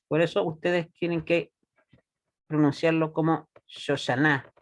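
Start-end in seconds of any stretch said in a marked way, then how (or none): 3.7-4.5 Shoshana with the final NA stressed; sho-sha-NA, demonstrating the Shoshana stress; stress on last syllable. Shown as a demonstration. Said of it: "en la última sílaba".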